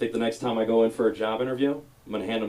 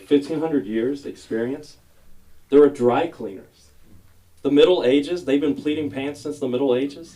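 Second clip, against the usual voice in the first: incredulous; 5 semitones higher, 7 dB louder than usual. Acted. Mocking the sign's claim.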